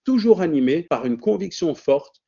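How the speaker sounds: measured, ceremonious speaker introduction; formal introduction read. Acted. Host introducing the guest to the webinar audience, formal read. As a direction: present the guest like a formal tribute.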